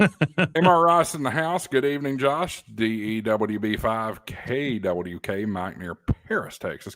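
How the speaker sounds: smooth slow announcer read; radio announcer voice. Acted. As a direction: roll it out like a DJ. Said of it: "his radio announcer voice".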